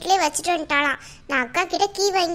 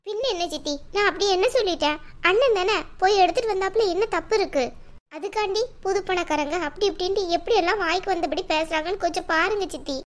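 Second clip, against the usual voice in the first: higher-pitched, aggrieved pleading; tearful complaint; 4 semitones higher than usual. Acted. Crying woman complains to her aunt of insults, tearful complaint. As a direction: appeal to your aunt, close to tears. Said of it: "நீ எதுக்கு அழுதுட்டு இருக்க?".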